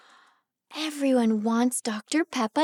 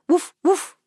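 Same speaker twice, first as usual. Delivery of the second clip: dog barking; 3 semitones higher, 5 dB louder than usual. Acted. Imitating dog.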